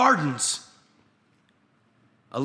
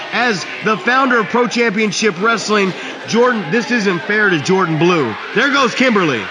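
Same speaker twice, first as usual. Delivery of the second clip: booming, heated wrestling promo; loud promo shouting; 7 dB louder than usual. Acted. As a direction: shout it across the arena.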